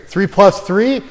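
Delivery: loud puzzled echo of the question; teacher mocks a student echoing the question; mock confused student. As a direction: play a slow kid repeating the sum. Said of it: "when you ask someone".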